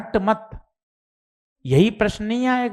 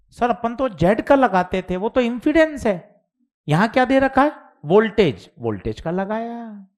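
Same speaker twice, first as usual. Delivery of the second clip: higher, puzzled student asking sir; voicing a student; 5 semitones higher than usual. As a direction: play the confused student objecting. Teacher voicing student's doubt. (ऊँची आवाज़ में उलझा हुआ छात्र)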